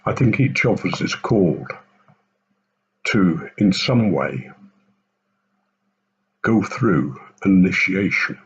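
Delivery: talking around a pipe stem; pipe in mouth. Real, not acted. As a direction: speak with a pipe between the lips. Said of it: "try and light my pipe again".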